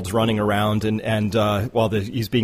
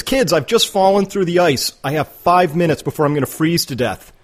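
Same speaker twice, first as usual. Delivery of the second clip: higher-pitched mock yell to kids; imitating an urgent shout, not at full volume; retold call-out; 6 semitones higher than usual. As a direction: act out calling a mock emergency to a group. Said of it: "he yells out to the kids".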